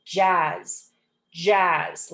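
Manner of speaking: "jazz" drawn out to a buzzing Z; double Z. Shown as a demonstration. Teacher showing two Z's make one sound, drawn "jazz". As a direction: hold "jazz" through to its final buzz. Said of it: "it just makes the Z sound".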